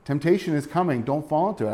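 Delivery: concerned, understated warning; gentle concern. Acted. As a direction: caution friends without scolding. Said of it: "I think he's concerned for them".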